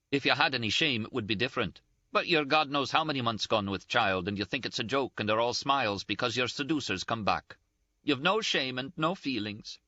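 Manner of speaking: high-pitched, indignant, close to tears; Ferguson's scolding. A narrator's reading. Ferguson voiced, reproaching Catherine.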